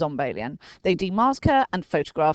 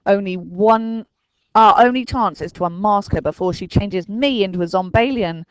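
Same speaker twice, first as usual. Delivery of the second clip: Dinking's voice; 3 semitones higher, 7 dB louder than usual. A narrator's reading. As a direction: lay out the only hope. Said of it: "said Dinking".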